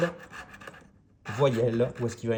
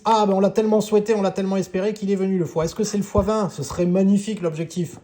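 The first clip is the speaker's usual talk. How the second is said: excited; 7 semitones higher, 6 dB louder than usual. Real, not acted. The hoped-for symbol has come.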